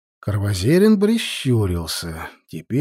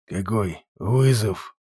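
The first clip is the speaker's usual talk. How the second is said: polite surprise; 3 semitones lower, slower than usual. A narrator's reading. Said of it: "вежливо переспросил старый чёрт".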